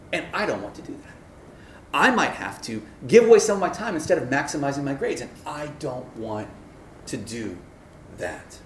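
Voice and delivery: grudging student refusing to change, dragging each refusal; reluctant inner voice. Retold or imitated. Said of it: "The real barrier is".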